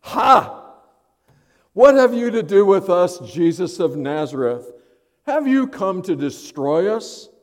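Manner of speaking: high, loud, defiant shout at Jesus; demon shouting. Acted. Possessed man shouting at Jesus, loud and high.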